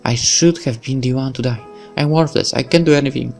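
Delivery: put-on a girl blaming herself for her mentor's death, half-crying; mild weeping girl. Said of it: "is starting to weep uncontrollably".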